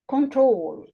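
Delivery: "Control" with "trol" drawn out and falling; stress on last syllable. Shown as a demonstration. Teacher explaining when to double the L, stress on "trol" in "Control". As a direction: put the weight on "trol" in "Control". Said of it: "The stress is on the last syllable".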